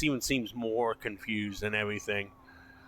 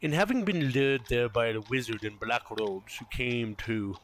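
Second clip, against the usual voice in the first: game master narration. A narrator's reading. Game master explains the church's history, storytelling narration. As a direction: tell the backstory with weighted pauses.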